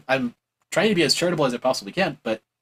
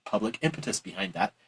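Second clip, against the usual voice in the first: mock dismissive mumble; 8 semitones lower, 9 dB quieter than usual. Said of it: "they'll just be like".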